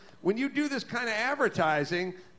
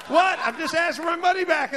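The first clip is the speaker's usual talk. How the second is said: sharp, higher "What?" then a fast defensive plea; indignant customer; 7 semitones higher, 4 dB louder than usual. Retold or imitated. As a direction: play innocent and shocked. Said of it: "And you go".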